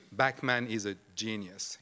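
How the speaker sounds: "genius" set apart as if in quotation marks; quote marks on GENIUS. Shown as a demonstration. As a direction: say "genius" as a sarcastic quoted word. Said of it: "one word in quotation marks".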